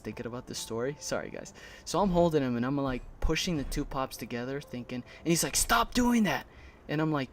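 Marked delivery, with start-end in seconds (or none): 5.5-6.5 high-pitched mock command; imitated angry order. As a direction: order him to stop, imitating annoyance. Mimics rival ordering him to stop.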